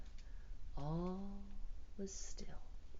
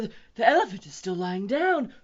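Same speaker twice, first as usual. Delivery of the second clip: high, loud panicked keeper; frantic zookeeper's lament; wailing; 11 semitones higher, 16 dB louder than usual. A narrator's reading. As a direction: wail it in mounting alarm. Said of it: "he wailed".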